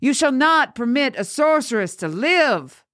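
high, declaimed verse; quoting scripture. A narrator's reading. Father quoting scripture over the girl, declaiming high. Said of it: "the father quoted".

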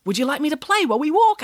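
a hint of a keen young pig offering to play; lightly voiced pig. A narrator's reading. Gwyneth voiced in story.

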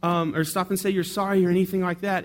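high, loud scolding of a store clerk; mock yelling. Shopper scolding the employee who bumped her, loud and high. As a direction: tell him off sharply, in a high voice. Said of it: "she's yelling at him".

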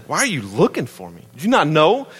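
put-on sarcastic teenager. Shown as a demonstration. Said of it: "that's all I hear in that moment".

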